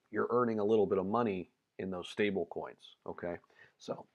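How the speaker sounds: losing his voice, strained and rough; hoarse voice. Real, not acted. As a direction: talk through a worn-out, hoarse throat. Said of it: "losing my voice a little bit today".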